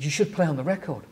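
lightly wide-eyed, quick offer; innocent suggestion. Retold or imitated. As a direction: imitate your naive younger self blurting it. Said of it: "so innocently".

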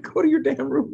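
high, loud mock order; amused, hammed-up yell; imitated scolding yell. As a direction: mimic a kid bossing a sibling. Repeats child's bossy yell.

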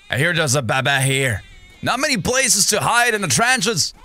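ordinary delivery

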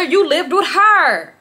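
slow, laughing disbelief; can't believe it, laughing. Real, not acted. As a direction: laugh through the words. Incredulous retelling, laughing.

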